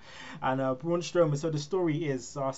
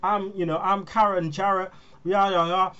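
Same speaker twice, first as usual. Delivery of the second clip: imitated indignant outburst, rising higher; mock telling-off; 4 semitones higher than usual. Mother telling off the wrestler at the bar, hammed-up indignation. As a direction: build to slow, emphatic name-dropping. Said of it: "just goes off on him".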